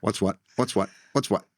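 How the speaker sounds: stiff robotic repetition. Pretend. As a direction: say it like a robot, fast. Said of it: "You sound like a robot here".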